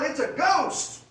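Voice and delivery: high, loud, slow terrified cry. Acted. Disciples crying out at a ghost in the storm, terrified.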